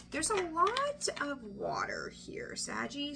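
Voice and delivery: hushed aside. Real, not acted. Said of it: "whispering card reading".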